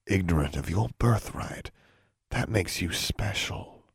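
gentle father fading to a hush; tender and soft. Acted. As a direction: speak softly, full of pride in her. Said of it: "His eyes shone as he said softly".

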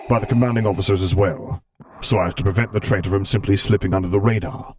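cold, measured imperial authority; Darth Vader voice. Acted. Vader voice continues.

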